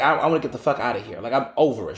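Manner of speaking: quoting her in a quick rush; hurried, mildly impatient quote; retold fast talk. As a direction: rattle it off, fed up and over it. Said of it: "she was talking so fast".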